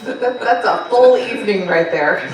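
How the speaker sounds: amused, slow, laughing aside; a laugh riding the words. Real, not acted. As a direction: chuckle at the overfull plan. Laughing reaction to long itinerary.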